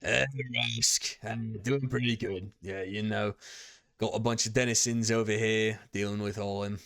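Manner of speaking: prison boss with a slurred twang; lightly slurred twangy character voice. Acted. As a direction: answer in a lazy local twang. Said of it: "I wanna say a twang".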